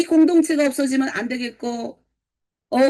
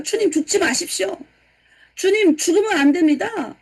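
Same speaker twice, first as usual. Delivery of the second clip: raised-pitch, insistent pleading; acted-out protest, pitched up; protesting plea; 5 semitones higher than usual. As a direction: beg him urgently not to go. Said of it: "베드로가 예수를 붙들고 항변하여 이르되".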